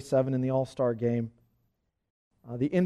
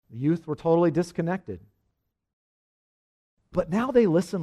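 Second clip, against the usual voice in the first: emphatic read-aloud voice, often louder; 3 semitones higher, 5 dB louder than usual. Acted. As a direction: read the account out with lifted, emphatic phrasing. Reads an account aloud.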